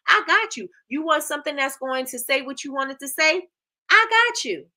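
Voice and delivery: upbeat pitch that climbs to a shout; hyped sales pitch. Shown as a demonstration. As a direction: sell it harder with every I got you. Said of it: "I'm gonna show up as your solution".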